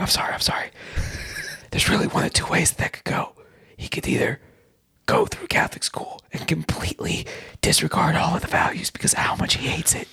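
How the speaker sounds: whispered asmr role play. Pretend. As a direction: whisper as if a child might hear. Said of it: "we're just gonna whisper".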